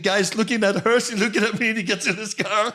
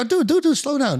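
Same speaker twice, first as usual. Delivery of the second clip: calling out; 9 semitones higher than usual. Retold or imitated. Calling out to speeding driver.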